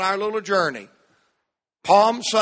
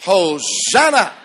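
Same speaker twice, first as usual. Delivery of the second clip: hosanna like you mean it; 4 dB louder, slower than usual. Real, not acted. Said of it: "Say it like you mean it".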